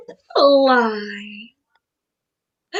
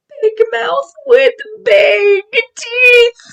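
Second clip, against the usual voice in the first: dramatic; 5 semitones higher than usual. Acted. Dramatic shout about teeth.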